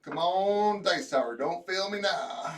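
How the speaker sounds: shouting at the dice; loud plea to the dice, slowing at the end; loud pleading. Real, not acted. Pleading with dice while rolling.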